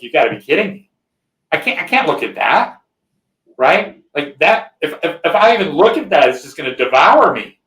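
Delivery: panicked refusal. Retold or imitated. Brother panics when told to look inside, voice rising. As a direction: recoil from it, voice climbing in alarm.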